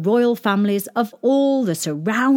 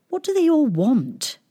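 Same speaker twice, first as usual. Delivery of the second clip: high, puzzled princess; puzzled question; 7 semitones higher than usual. Acted. Princess asks shepherd boy about her suitors, puzzled. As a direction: ask it high and bewildered, falling at the end.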